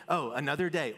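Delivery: "Oh, another day" with a mild tired sigh; jaded "Oh, another day"; weary. Pretend. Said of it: "Or you can wake up and say".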